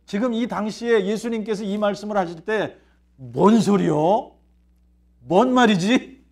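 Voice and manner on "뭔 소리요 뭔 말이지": slow, drawn-out baffled question; puzzled disciples. Acted. Disciples hearing Jesus and not getting it, puzzled. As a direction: stretch it out like you just don't get it. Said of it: "감이 안 잡힌 거예요".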